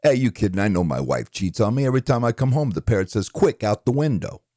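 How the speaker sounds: lightly voiced New York one-liner comic; exasperated New York comic, pitch jumping up on setups; Rodney Dangerfield. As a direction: punch out put-upon wife jokes like a club comedian. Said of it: "let's do a couple of Rodney".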